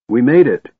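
loud relieved call; yelling. Acted. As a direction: shout it across the canyon. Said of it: "Tika yelled".

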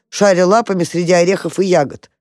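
ordinary delivery, nothing marked

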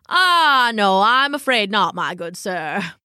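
theatrical regret from a pompous raccoon; sad raccoon. Acted. Raccoon admitting to the dog he has no string, sadly. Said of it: "the raccoon said sadly".

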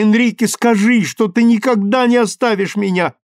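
high, loud, desperate pleading; a girl begging her lover, high and loud; passionate plea. A narrator's reading. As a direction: cry out to him not to leave her. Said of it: "и страстно сказала".

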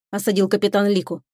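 ordinary delivery, nothing marked

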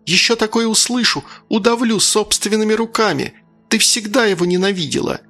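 high, shrill threatening mother; enraged mother threatening her daughter; hysterical threat. Acted. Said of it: "голос был истеричный, визгливый".

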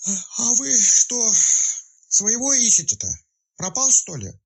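high, slow words through a yawn. A narrator's reading. Sleepy hostess yawning while asking about the missing man. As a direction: drag it out mid-yawn. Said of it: "зевая во весь рот".

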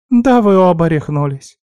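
high, loud appalled cry; horrified spider. A narrator's reading. Spider told the truth by both friends, horrified outcry. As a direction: exclaim it aghast. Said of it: "ужаснулась паучиха".

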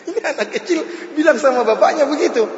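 high, laughing through the words; real amusement breaking into speech. Real, not acted. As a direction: tell it through helpless laughter. Amused retelling of child's retort.

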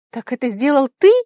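high, loud astonished cry; shocked exclamation; exclaiming in surprise. A narrator's reading. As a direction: burst out in disbelief. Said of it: "воскликнула она".

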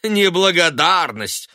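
loud, slow mocking echo. A narrator's reading. Son mocking his mother's cry. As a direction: throw her word back with a sneer. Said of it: "усмехнулся он".

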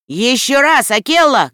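rally Akela across the herd; shouted command. A narrator's reading. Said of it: "крикнул он".

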